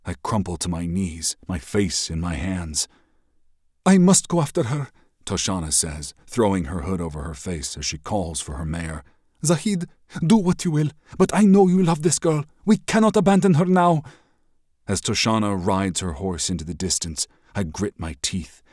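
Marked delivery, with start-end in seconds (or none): 3.8-14.0 high, loud, resolute woman warrior; rally him firmly; resolute soldier. Acted. Toshana urges the prince to follow, high and loud.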